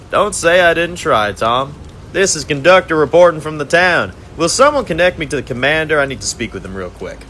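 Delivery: high, taunting villain voice, savoring the catch; gloating villain conductor. Acted. Conductor gloats over his handcuffed captives, high and mocking. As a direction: purr over the trapped prisoners like a smug torturer.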